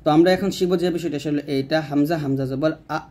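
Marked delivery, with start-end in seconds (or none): 1.9-3.0 হামজা জবর আ with a sharp push on the আ; clipped glottal push on আ; pushed glottal stop. Shown as a demonstration. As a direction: push the আ out with a catch in the throat. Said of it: "ধাক্কা দিয়ে বলবেন".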